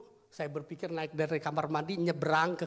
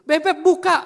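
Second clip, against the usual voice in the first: very loud, high shout; calling out; 11 semitones higher, 14 dB louder than usual. Retold or imitated. Father urges child to open, loud high shout. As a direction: re-enact shouting at the locked door.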